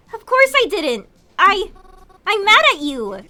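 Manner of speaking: angry retort. Acted. Mary yelling back at Kroven, angry and hurt. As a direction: fire it back at him, hurt and mad.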